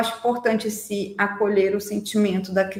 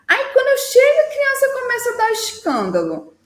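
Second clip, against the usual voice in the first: much higher, louder exasperated parent; complaining parent; 11 semitones higher, 4 dB louder than usual. Retold or imitated. Parent complaining the child melts down at pickup, exasperated high whine.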